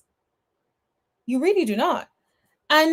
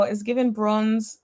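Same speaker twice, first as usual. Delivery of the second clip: ordinary delivery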